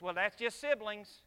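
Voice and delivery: slow, shrugging brush-off; dismissive excuse. Retold or imitated. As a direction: wave it away as no big deal. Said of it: "we make the excuse like this".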